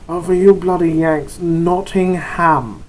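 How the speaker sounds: put-on English accent, drawn out on Nottingham; mock-English correction for the Yanks; caricature English accent. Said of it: "again, a caricature of English accents".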